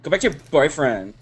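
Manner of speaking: curt dismissal. Real, not acted. Co-host shooing the caller off, loud dismissal.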